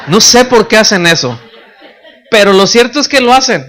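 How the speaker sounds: chuckling through the words; amused laugh while telling it. Real, not acted. Preacher laughing at mirror habits, laughing.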